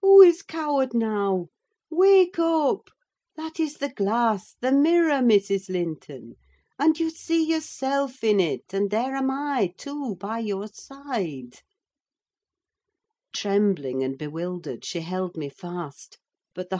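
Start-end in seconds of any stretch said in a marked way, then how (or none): 0.0-11.6 raised, high-pitched urging; emphatic nurse, pitch lifted then settling; urgent rousing. Acted. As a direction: firmly shake her out of her delusion. Nurse rousing the deluded patient.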